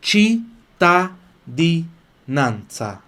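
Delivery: cittadinanza drawn out very slowly; teacher slowing down cittadinanza; slow pronunciation demo. Shown as a demonstration. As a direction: stretch cittadinanza, clear ti and tsa. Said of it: "Falo ti".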